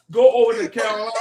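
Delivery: loud, laughing angry order; mad yell. Real, not acted. Angry Saints fan yelling at a Carolina fan. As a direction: shout him back to his own team. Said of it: "that nigga mad".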